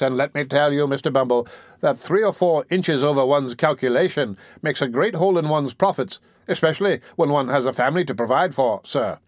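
an oily undertaker angling for profit; fawning undertaker. Acted. Undertaker speaks to beadle.

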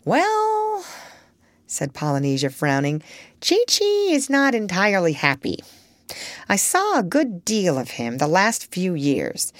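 put-on chatty old parrot, prim and knowing. Parrot, frowning.

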